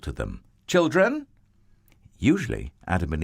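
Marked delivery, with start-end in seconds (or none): 0.7-1.3 put-on high, calling out to the children; God calling his hidden children. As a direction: call out gently searching for them. God calls to hiding children.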